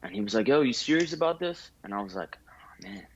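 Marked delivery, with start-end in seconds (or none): 0.5-1.7 mock high-voiced barber. Barber's question, retold. 2.5-3.1 breathy, voiceless "oh man" under his breath; whispered hesitation. Retold or imitated. To the barber asking if he's serious, a hushed unsure whisper.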